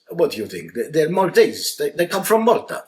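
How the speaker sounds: incredulous Maltese dad, building up; Maltese accent. Retold or imitated. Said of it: "Mario again says".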